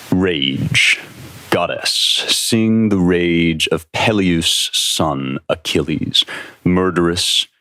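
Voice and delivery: slow, measured epic recitation; unhurried dramatic reading of an ancient epic; poem reading. Acted. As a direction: read it like a solemn epic poem, letting each line hang. Reads Fagles' Iliad opening aloud.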